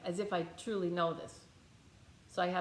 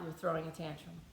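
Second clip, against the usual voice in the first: calling out quietly; 5 semitones lower, 6 dB quieter than usual. Retold or imitated. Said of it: "I called it out".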